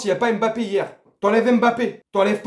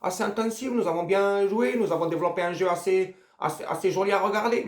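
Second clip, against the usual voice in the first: softer, smug coach's voice, lightly done; mocking Didier Deschamps; 6 dB quieter than usual. Fan mocking the coach's interview, softly smug. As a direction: parrot the coach's self-satisfied interview. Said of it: "et l'autre il ose dire".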